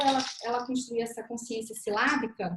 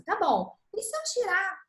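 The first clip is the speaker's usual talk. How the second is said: put-on teacher asking child; 5 semitones higher than usual. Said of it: "você vai perguntar pra criança".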